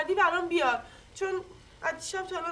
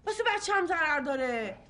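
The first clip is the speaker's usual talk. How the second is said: 1 tearful; 2 semitones lower than usual. Acted. Crying heard.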